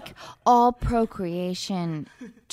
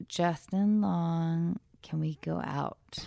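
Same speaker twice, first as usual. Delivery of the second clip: put-on Russian accent. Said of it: "That's a great Russian accent".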